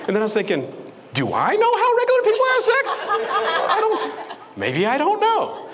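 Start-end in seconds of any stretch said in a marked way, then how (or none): 1.1-5.6 much higher, fast, giggling; panicked inner voice; laughing self-doubt. Retold or imitated.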